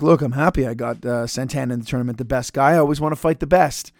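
casual, understated delivery, a little low; calm. Retold or imitated. Imitating Morocco's interview before the tournament, calm and casual. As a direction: toss it off like relaxed small talk. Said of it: "He's so calm".

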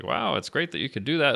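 lightly voiced older scientist; Noonien Soong. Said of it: "this is my bad Noonien Soong".

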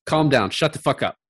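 half-hammed angry shout; mock yell. Friend quoting a movie clerk, mock yell. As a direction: bark it like a furious clerk.

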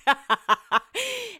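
high burst of laughter. Real, not acted. Laughing about a friend taking her books back, amused.

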